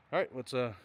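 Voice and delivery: breathing hard into the mic between words; heavy nose breathing. Real, not acted. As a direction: talk while puffing from the climb. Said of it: "stop breathing into the mic".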